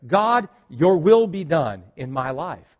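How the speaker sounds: slow, earnest prayer voice. Shown as a demonstration. Pastor shows the congregation the prayer, slow and earnest. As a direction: pray it slowly, as if meaning every word. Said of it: "If you'll simply pray the prayer".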